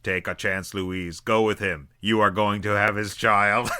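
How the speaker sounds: deep, hushed movie quote; low mock Sherman voice. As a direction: intone it like the robot. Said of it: "Sherman looks at Louise and is like".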